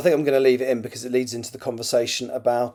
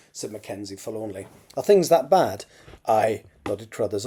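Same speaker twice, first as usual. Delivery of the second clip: measured, expressive novel reading; story narration; 3 dB louder than usual. A narrator's reading. Author reads a draft chapter aloud, story narration. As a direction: read it out as an audiobook narrator.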